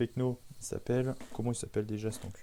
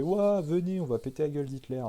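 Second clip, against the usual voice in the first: mock rallying cry; 3 semitones higher than usual. Acts the hero rallying people.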